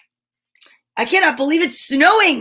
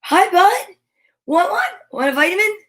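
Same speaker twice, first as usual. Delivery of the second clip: pet talk; 6 semitones higher than usual. Real, not acted. Talking to the dog Yogi.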